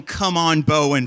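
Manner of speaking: put-on a crowd of teen boys egging him on; chorus shouting.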